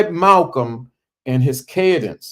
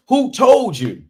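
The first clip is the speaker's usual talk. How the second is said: much higher, ringing orator's question; emphatic oratorical challenge; Malcolm X impression; 9 semitones higher, 3 dB louder than usual. Shown as a demonstration. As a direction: imitate an orator's rhythm, "told" swelling then falling. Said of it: "That's Malcolm all the way".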